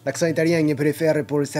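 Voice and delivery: wobbly Italian accent sliding towards Spanish; attempted Italian accent. Shown as a demonstration. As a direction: try an Italian accent and lose it. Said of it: "je suis pas sûr de savoir tenir l'accent italien".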